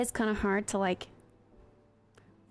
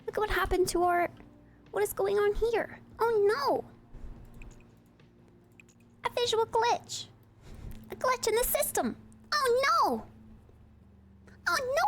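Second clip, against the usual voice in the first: mock alarm; 7 semitones higher than usual. Streamer faking panic over a glitch, high and hammed-up. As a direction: play up the glitch like a disaster.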